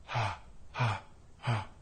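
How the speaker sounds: soft, airy ha with loose cords; breathy ha. Shown as a demonstration. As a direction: let the air spill through each ha. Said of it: "Go back and forth between these two sounds".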